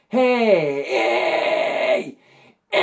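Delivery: high, loud, distorted yells; fry scream. Shown as a demonstration. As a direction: bark out screamed hey calls. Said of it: "This is what I would consider a head fry".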